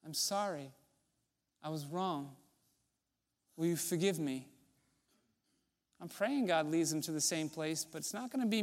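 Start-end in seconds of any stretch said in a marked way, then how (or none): 0.0-4.5 softer, humble and sincere; sincere apology. Shown as a demonstration. Pastor modelling a real apology to the congregation, soft and sincere. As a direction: say sorry like you truly mean it. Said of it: "if I'm being called to go apologize".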